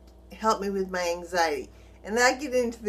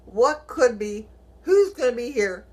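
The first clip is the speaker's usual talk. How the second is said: louder, anxious questions tumbling out; acted racing worries; 5 dB louder than usual. Homeowner imagines repair chaos in her house, acting anxious. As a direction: voice the worried thoughts emphatically. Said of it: "My mind is racing".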